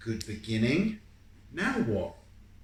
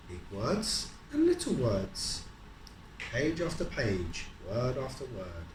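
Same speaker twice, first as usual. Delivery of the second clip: slow, lilting storybook reading; reading aloud to a child; 2 semitones higher, slower than usual. A narrator's reading. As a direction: draw the child into the rhythm. Reading picture book to child.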